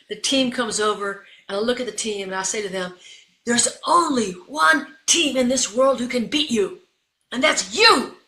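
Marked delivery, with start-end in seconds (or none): 3.5-8.2 slow, higher, punched-out rallying speech; rousing pep talk. Retold or imitated. Coach to team in a timeout, rousing. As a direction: drive each phrase home to the team.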